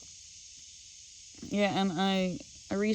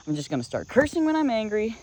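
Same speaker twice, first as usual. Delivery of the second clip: louder repeated threat; 7 semitones higher than usual. Retold or imitated. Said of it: "I yelled at him".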